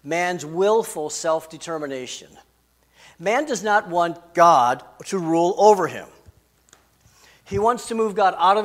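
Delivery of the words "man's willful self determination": "willful" picked out with firm emphasis; stress on willful. Shown as a demonstration. Preacher restating his first point to the congregation, stress on "willful". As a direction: lean hard on the word "willful". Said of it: "I put the emphasis on willful".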